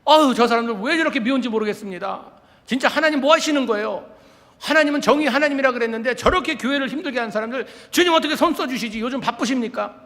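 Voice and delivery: loud, high exasperated grumbling at God; complaining prayer. Retold or imitated. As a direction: vent your frustration loudly, half laughing. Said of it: "이러면서 막 그랬는데요".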